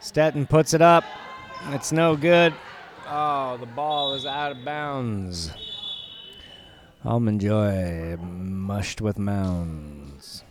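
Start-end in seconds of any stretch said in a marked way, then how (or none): 3.1-10.4 deadpan slow rhyme; slow rhyming jingle. Acted. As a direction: draw out the slogan, slowly.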